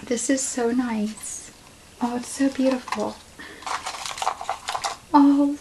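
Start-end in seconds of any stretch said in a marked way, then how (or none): 0.0-3.2 holding back tears. Real, not acted. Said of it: "try not to get emotional".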